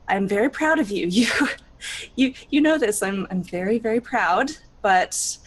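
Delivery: proud, gentle mentor voice; lightly voiced proud mentor; motherly encouragement. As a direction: coax her kindly, voice swelling with pride. Mother figure encouraging Alizarin.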